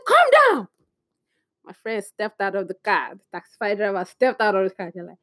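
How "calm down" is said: squeaky, much higher mock order; mocking echo. Woman mimicking the officer's order back at him, squeaky mockery. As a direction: throw his words back in a squeaky voice.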